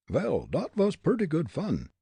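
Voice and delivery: chuckly-minded stage German, pleased; German accent. A narrator's reading. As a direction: gloat lightly in a German accent. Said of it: "Fritz muttered with a grin".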